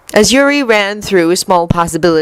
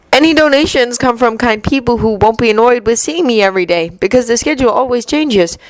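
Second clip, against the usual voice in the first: higher Yuri voice; 4 semitones higher than usual. Acted. Yuri explaining to Victor.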